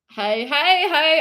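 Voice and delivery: HEY said as "high", mock Australian; bad Aussie accent. Streamer imitating an Aussie crowd, bad Australian accent. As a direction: put on a broad, poor Australian accent. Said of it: "hearing this in an Aussie accent".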